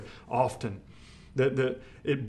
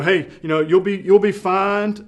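brushing it off; 5 semitones higher, 8 dB louder than usual. Retold or imitated. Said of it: "it's very mechanical".

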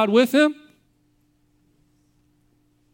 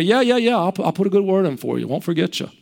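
dismissive brush-off; 5 semitones lower, faster than usual. Pretend. Cupbearer brushing Joseph off.

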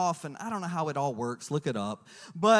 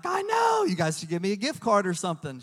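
cheeky shout; 4 dB louder than usual. Retold or imitated. Husband joking to the lab lady, cheeky shout. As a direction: blurt it out for a gift card.

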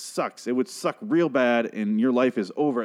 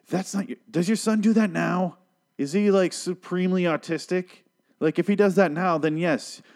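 incredulous rant; 9 semitones higher than usual. Real, not acted. Ranting at grieving parents.

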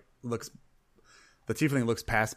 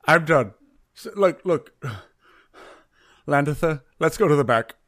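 louder and a bit higher, throwing in the towel; fed-up announcement; 4 semitones higher, 6 dB louder than usual. Acted. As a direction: announce you are done, exasperated. Bartender gives up and leaves.

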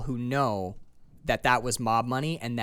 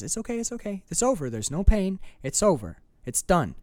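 calming imitation, like a wild animal. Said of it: "trying to keep a ravenous animal calm".

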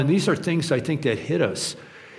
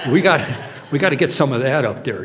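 laughing; 4 dB louder, faster than usual. Pretend. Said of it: "can I just imagine him saying".

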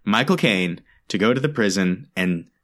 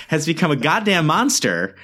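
real annoyance; 5 semitones higher than usual. Real, not acted. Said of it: "sorry, I'm really mad".

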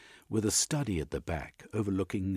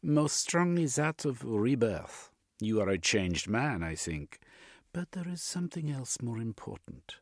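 lightly voiced, unconcerned analyst; Jung the analyst; 4 semitones higher than usual. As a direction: deliver a diagnosis as a psychoanalyst.

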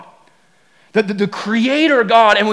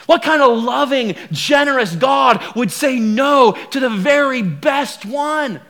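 much higher, loud, slow mock outrage; scandalized serpent; 4 semitones higher, 3 dB louder, slower than usual. Serpent faking outrage at Eve about the best tree, loud and high. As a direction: feign shock to stir her up. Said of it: "And he goes".

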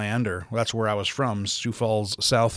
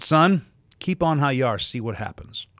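sharp warning call that drops off; mother warning her son across the room, sharp then falling; stern mother's warning; 2 semitones higher than usual. Retold or imitated. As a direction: warn him from across the room. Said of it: "and she said".

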